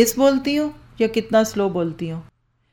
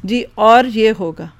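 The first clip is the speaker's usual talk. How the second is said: loud, slow and deliberate; projected voice; 6 dB louder, slower than usual. Shown as a demonstration. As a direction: project it out slowly to the back row. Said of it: "कैसे बोलूँ".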